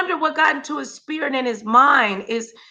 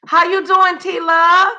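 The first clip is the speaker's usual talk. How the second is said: excited greeting; 7 semitones higher, 3 dB louder than usual. Real, not acted. Greeting a viewer in chat.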